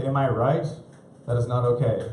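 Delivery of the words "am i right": cheesy comedian tag. Retold or imitated. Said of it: "tagging with".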